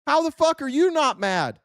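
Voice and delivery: fed-up angry rant; real anger. Real, not acted. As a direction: let the anger spill out. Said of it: "Am I mad?".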